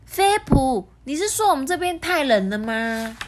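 high, incredulous question; gasp, then ask in high disbelief; very surprised. A narrator's reading. Penguin hears monkey finds it cold, shocked. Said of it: "非常惊讶地说".

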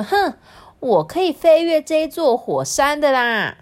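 defiant boasting. Acted. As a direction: huff and brag, brushing the warning off. Proud bird brushes off warning. (不服气地逞强)

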